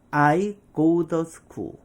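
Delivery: slow "I go the school", a D sound opening "the". Shown as a demonstration. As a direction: say "the" as "duh", word by word. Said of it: "T에서 D로". ('the'를 '더'처럼 천천히)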